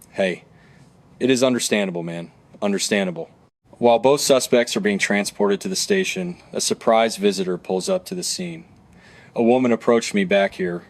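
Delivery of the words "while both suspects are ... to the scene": steady true-crime narrator voice; documentary narration. Acted. Narrator guiding viewers through the arrest, documentary narration. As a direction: narrate the case evenly for viewers.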